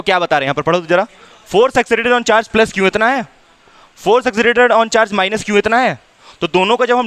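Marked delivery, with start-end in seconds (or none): 1.5-2.9 very slow dictation pace; slow read-aloud. Shown as a demonstration. Teacher reads textbook line aloud. 4.1-5.6 very slow dictation pace; slow read-aloud. Shown as a demonstration. Teacher reads textbook line aloud.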